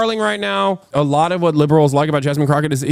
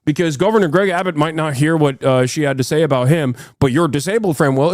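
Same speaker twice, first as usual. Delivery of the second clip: mocking pearl-clutching. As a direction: parody a fussy liberal scold. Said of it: "be like".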